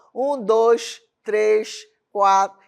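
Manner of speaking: loud, separated count with a Norte accent; Northern Brazilian accent. Shown as a demonstration. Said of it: "tem algo aqui do Norte".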